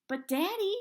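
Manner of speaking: high, loud pleading cry. A narrator's reading. Daughter begging her father to keep searching, high and loud. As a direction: beg Daddy not to stop.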